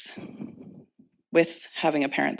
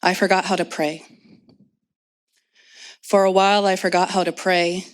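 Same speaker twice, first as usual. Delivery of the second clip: measured poetry recital with long pauses; poem reading; 2 semitones higher than usual. Acted. Poet reads of homeless mother to audience, measured recital.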